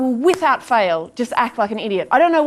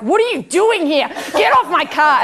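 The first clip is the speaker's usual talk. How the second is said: higher, mock-furious telling-off; confrontational; 6 semitones higher, 3 dB louder than usual. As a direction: act out confronting an intruder. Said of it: "I am right up in its face".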